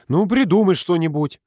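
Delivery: high-pitched snappish retort; irritable snap. A narrator's reading. Ira snaps at Volodya in their argument, irritated. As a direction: fire it back crossly. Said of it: "огрызнулась она".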